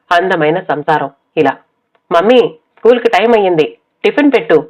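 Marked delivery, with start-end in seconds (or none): 2.1-4.6 put-on higher, fast child's call to mummy. Elder daughter calling mother for breakfast, quick high call. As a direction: hurry her mother along, quick and high. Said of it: "పెద్ద పాప కేకతో".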